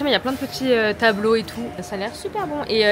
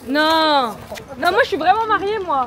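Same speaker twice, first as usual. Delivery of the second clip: loud playful protest; 2 semitones higher, 3 dB louder, slower than usual. Real, not acted. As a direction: protest loudly, half joking. Playful insistence on being married. (protestation forte et joueuse)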